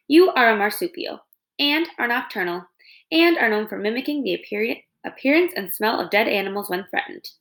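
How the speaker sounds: lightly voiced calm robot; even, measured robot delivery. Robot recites facts.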